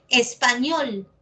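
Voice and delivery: "Español" slowly, stress on ÑOL; slow teacher's demo of "Español", ÑOL stressed; stress on final syllable. Shown as a demonstration. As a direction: draw out "Español", leaning on the last syllable. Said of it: "esta es la sílaba tónica".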